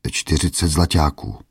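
put-on a touch of timid old man; timid answer. Old merchant meekly names his price to a bully. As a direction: answer meekly, barely daring. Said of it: "odvětil bázlivě".

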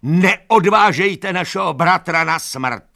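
high, loud, slow begging cry; anguished plea. A narrator's reading. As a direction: beg them to stop. Animals begging the horses.

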